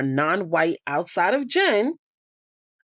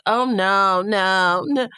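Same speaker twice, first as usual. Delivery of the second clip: put-on whiny little girl; 2 semitones higher, much slower than usual. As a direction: mimic an immature girl's whine. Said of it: "she talks like a little girl that whines and draws".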